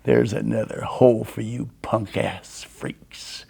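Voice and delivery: slow, lightly voiced threat; a hint of menacing biker growl; deep growling voice. Biker with machete at boy's throat, slow menace. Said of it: "He had this deep growling voice".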